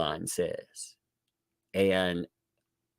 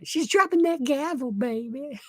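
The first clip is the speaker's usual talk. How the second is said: mock sass. Mocking the headline.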